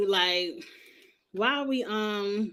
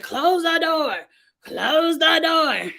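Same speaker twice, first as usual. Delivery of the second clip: high, drawn-out mock yell; mimicking a frantic crowd, slow and high; panicked crowd yell; 6 semitones higher, 4 dB louder, much slower than usual. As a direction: stretch it out like a panicking crowd shouting.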